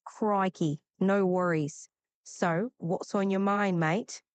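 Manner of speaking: easygoing Brisbane accent; Australian accent. Shown as a demonstration. Assistant asked to sound from Brisbane, Australian accent. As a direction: talk like you're from Brisbane. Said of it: "more like you're from Brisbane".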